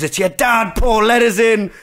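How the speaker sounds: dad calling through door. Retold or imitated. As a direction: call in as the dad outside.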